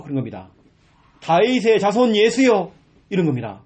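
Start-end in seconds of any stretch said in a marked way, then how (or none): 1.2-2.7 loud, slow plea to Jesus; loud beggar's cry; mock cry out. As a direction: call out across the crowd. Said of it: "고함을 지른 겁니다".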